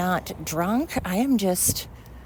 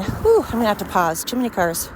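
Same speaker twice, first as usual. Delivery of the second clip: breathing heavy; 3 semitones higher, 3 dB louder than usual. Real, not acted. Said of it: "breathing heavy again".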